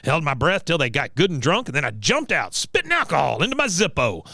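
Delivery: lightly voiced war-veteran storyteller; a hint of an old veteran bragging; Cotton. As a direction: tell it as a boastful old soldier, pitch jumping up. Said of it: "he goes".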